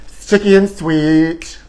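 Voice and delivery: drawn-out sticky and sweet; slow savoring. Shown as a demonstration. Savoring the spread, slow and sweet. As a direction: stretch "Sticky" out slowly. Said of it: "Ooh, sticky and sweet".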